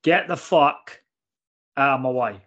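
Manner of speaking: firm mock command with a pause midway; mock intimidation. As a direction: order them aside, leaning on the first words. Acting out silent intimidation of passengers.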